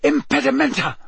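high-pitched urgent yell; yelled spell. A narrator's reading. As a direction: yell the curse at an attacker. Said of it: "Harry yelled".

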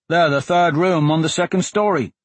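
put-on high boy's voice; young boy voice. A narrator's reading. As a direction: voice a small street boy. George, a small boy, voiced.

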